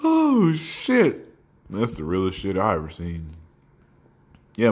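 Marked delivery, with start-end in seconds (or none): 0.0-1.3 high squeal at the tail of a laugh; amused exhale. Real, not acted. Recovering after a hilarious meme, high amused gasp. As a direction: come out of a laughing fit.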